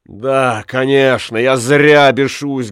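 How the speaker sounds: mock yourself bitterly; sarcastic. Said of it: "говорил он".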